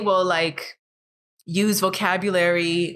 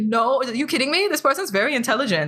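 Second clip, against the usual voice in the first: higher, pitched-up indignant retort; indignant defence; 5 semitones higher, faster than usual. Retold or imitated. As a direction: push back in disbelief, half playful. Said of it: "and it's like".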